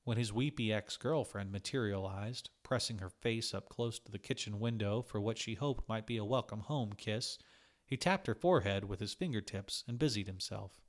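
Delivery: plain reading voice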